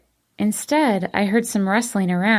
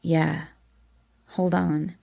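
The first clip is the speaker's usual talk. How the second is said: strained gasp; 3 semitones lower, 4 dB quieter, slower than usual. A narrator's reading. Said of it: "In a strained voice ... he gasped out".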